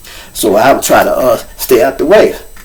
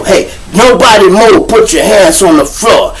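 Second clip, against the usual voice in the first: mock holdup command, a little higher; mocking robber voice; 4 semitones higher than usual. Teasing the inmate about how he robbed, mocking robber voice. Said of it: "fucking with him with the voice".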